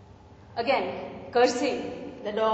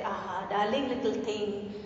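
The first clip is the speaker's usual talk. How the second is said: mock caressing. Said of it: "Now he starts caressing the puppy".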